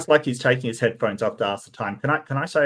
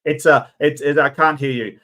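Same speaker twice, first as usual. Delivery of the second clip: raised, louder voice into a bad phone line; mock bad-line phone call; 2 semitones higher, 5 dB louder than usual. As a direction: imitate struggling to be heard on a call. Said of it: "when someone's talking on the phone".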